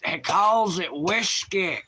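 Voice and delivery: slow, high put-on Irish accent. Streamer repeating his Irish example for chat, drawn-out Irish accent. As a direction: draw it out in an exaggerated Irish accent. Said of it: "the whole Irish thing is like".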